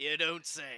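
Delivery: chuckling while speaking. Voicing a character who chuckles in reply to a bad omen: chuckling while speaking. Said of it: "he chuckles and he says".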